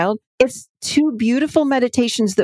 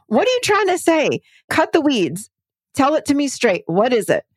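impatient coach voice; 5 semitones higher than usual. Retold or imitated. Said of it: "And I'm like".

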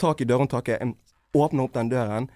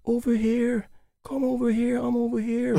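calling from down the hall; 10 semitones higher than usual. Retold or imitated. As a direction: lure him in with a high sing-song call. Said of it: "Jeg hører fra langt nede i gangen". (høy, lokkende rop langt borte)

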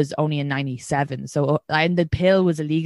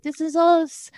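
mock proud leprechaun; 10 semitones higher, slower than usual. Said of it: "dressed like leprechauns being like".

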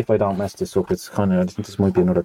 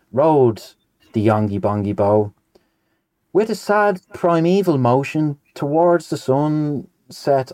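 sing-song verse reading, pitch swooping on the lines, sinking on the refrain; storybook rhyme read out with relish; nonsense poem recitation; 3 semitones higher, slower than usual. Acted. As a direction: recite comic verse with a lilting, measured beat. Reads a nonsense poem aloud.

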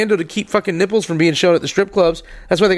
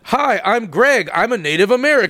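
put-on Native American accent; 2 semitones higher than usual. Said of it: "let me hear your Native American accent".

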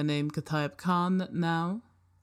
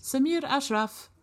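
robot voice; 10 semitones higher than usual. Acted. Robot repeats name.

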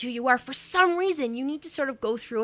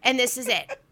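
panicked inner voice. Retold or imitated. Inner panic about running offstage.

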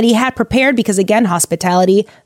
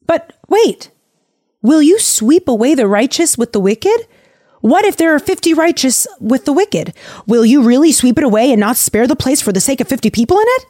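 pleading Abraham; 5 semitones higher than usual. Retold or imitated. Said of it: "Abe says in response".

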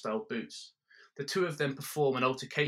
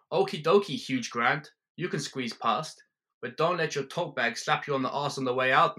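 mocking Spotty; 3 semitones higher, 3 dB louder than usual. Spotty taunting the tourist in a mocking German voice. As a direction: sneer it with a put-on German lilt.

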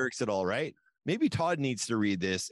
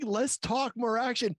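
mock singer; 8 semitones higher, slower than usual. Mocking the song's singer.

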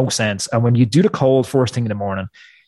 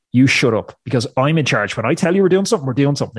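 firm inner command; 2 semitones higher than usual. Retold or imitated. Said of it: "I'm like".

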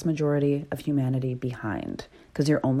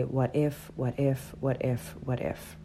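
each what if softer, dying into a whisper; fading anxious loop; 2 semitones lower, 7 dB quieter than usual. Retold or imitated. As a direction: let the worry loop fade to nothing. Quoting anxious brain, fading out.

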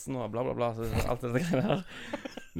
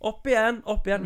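put-on cheering on a child; 9 semitones higher, 7 dB louder than usual. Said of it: "Og så bare".

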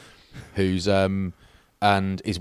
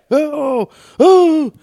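much higher, louder startled oh; startled cry; 10 dB louder than usual. Pretend. Cyclist yelping at the road, startled and loud. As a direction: yelp like something nearly hit you.

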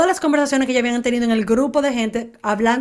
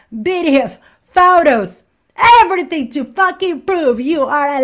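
retold accusation; 4 semitones higher, 4 dB louder, slower than usual. Heather desenmascarando a Mónica, retado.

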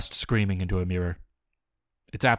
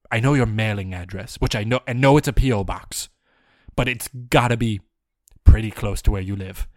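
growing louder toward a shout; comic rant getting louder; building mock threat; 6 dB louder than usual. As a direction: ramp up the menace. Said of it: "escalating threat".

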